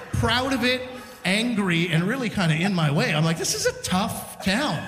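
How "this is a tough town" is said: slow, slightly raised comic verdict. Retold or imitated. Comic reacting to hostile bikers, slow and emphatic. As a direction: draw out TOUGH TOWN in disbelief.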